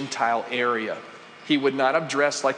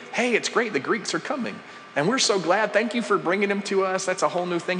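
bright, higher-pitched pretend gushing; mock cheerful welcome; 6 semitones higher than usual. Preacher mocking a cheerful Jesus reply to the Greeks, upbeat and higher. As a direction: gush like someone thrilled at the news, but it's a put-on.

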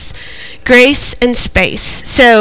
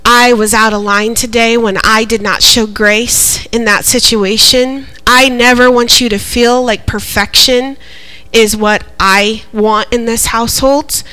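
retold apology. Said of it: "I told Hudson, I said".

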